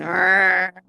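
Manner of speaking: playful growl of pouncing cats; imitated cat growl. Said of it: "shaking and going".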